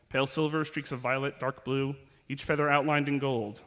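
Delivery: measured, serious reading-aloud voice; story narration. Acted. Author reads the last pages to fans, gravely. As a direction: read the grim scene steadily to the crowd.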